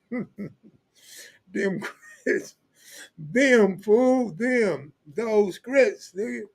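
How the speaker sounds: high mock Southern correcting himself; high imitation of a storyteller correcting himself; imitating Cartoon. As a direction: fumble toward proper speech. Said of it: "He like".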